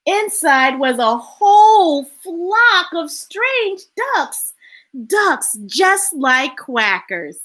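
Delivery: slow storybook reading with drawn-out key words; story narration. A narrator's reading. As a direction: read it unhurriedly to children. Reads picture book aloud.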